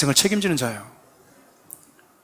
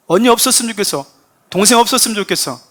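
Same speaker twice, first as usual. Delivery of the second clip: higher-pitched acted grumble about a sibling; sibling's mock complaint; 4 semitones higher than usual. 형제끼리 투정하는 장면. (형제에게 투정하듯 높은 목소리로)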